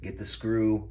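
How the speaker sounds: talking while chewing gum. Real, not acted. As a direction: gum smacking between words. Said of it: "Sorry for the gum smacking".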